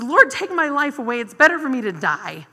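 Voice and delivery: melodramatic wail. Retold or imitated. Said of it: "he said".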